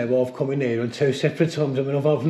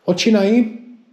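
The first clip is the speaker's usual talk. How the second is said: jumpy whispering ghost hunt; 6 semitones higher, 6 dB louder than usual. Real, not acted. Calling out to a spirit.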